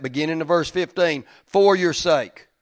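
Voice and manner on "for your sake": For your sake dwelt on slowly, For stressed; slow down and press For your sake; slow emphatic stress. Shown as a demonstration. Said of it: "Everybody take note of that".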